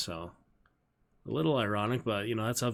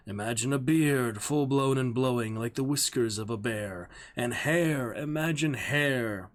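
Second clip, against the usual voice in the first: a player begging the lord to imagine him in costume; theatrical line reading; 3 semitones higher, 4 dB louder, slower than usual. Acted. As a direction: declaim the speech louder, like an actor on stage. Rehearsing an old actor's speech.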